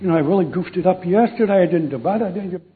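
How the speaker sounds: soft, hesitant mock doubter; unsure believer. Preacher mimicking a believer unsure of heaven, softly hesitant. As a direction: fret quietly like an unsure believer. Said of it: "Imagine going over here and going".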